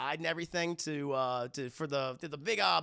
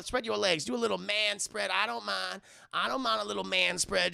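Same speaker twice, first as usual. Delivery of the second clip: a hint of a high, coy old aunt; flirty auntie; 3 semitones higher than usual.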